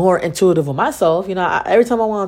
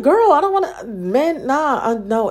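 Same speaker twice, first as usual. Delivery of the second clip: put-on girl's quote; 6 semitones higher, slower than usual. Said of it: "she's like".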